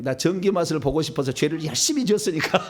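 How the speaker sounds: joking plea that ends in laughter; amused mock confession; laughing. Real, not acted. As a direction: plead in jest, then break up laughing. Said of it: "웃으면서 얘기를 합니다마는".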